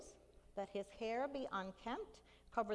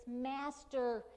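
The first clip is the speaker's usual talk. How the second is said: pleading cry; 2 semitones higher, 3 dB louder, slower than usual. Acted. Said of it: "crying out to Jesus".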